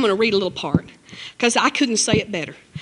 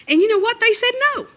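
emphatic punchline; 11 semitones higher, faster than usual. Real, not acted. Preacher's punchline of refusal.

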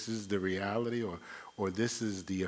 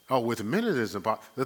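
quick, offhand, a bit louder, with "Oh" tossed lightly; casual confident quote; 2 semitones higher, 4 dB louder, faster than usual. Shown as a demonstration. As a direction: rattle off "Oh, with men it is impossible" as if it's obvious. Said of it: "you can't be ashamed to make that kind of statement".

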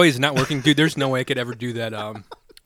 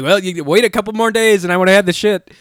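quoting a friend; 6 semitones higher, 7 dB louder than usual. Retold or imitated.

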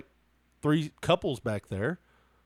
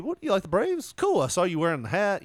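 casual buddy talk; 4 semitones higher, faster than usual. Shown as a demonstration. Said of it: "if I was to do that to you".

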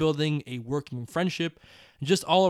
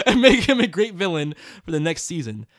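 laughing; 7 dB louder than usual. Real, not acted. Reading while laughing.

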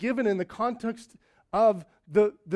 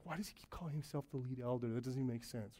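puzzled mock listener; 6 semitones lower, 13 dB quieter, faster than usual. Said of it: "you'd be like".

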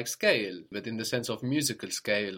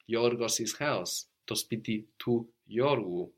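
slow teaching model; slower than usual. Shown as a demonstration. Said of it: "My friend's house".

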